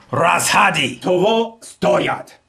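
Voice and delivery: "stoyat" stressed on its first syllable, slowly; slow model phrase, punching the start of "stoyat". Shown as a demonstration. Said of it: "Placing the stress on the first syllable".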